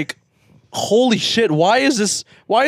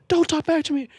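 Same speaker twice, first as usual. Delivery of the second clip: mock stern dad; 13 semitones higher than usual. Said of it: "And, like".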